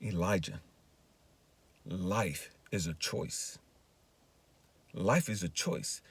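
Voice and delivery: soft, low and slow; hushed, deliberate divine counsel; gentle voice of God. Retold or imitated. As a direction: lay it down gravely, with long pauses. God's voice drops to slow, soft.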